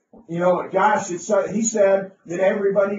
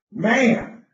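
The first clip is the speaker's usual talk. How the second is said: higher, louder griping voice; mock complaining guy; 5 semitones higher, 4 dB louder, slower than usual. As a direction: whine it like a disappointed rookie. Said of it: "he was mad".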